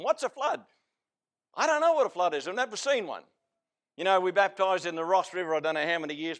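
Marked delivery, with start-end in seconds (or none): 0.0-3.2 high-pitched mock ignorance. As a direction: imitate scoffers playing dumb. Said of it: "They mocked".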